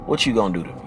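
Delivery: low, soft breathy woman's purr; seductive woman. Retold or imitated. Woman on the phone to him, low seductive coo. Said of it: "in a very seductive manner".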